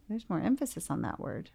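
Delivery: soft, lightly acted therapist echo; musing therapist. Therapist echoing the patient's request, quietly musing. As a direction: reflect it back quietly, as a therapist would. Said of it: "So then as a therapist, I'm like".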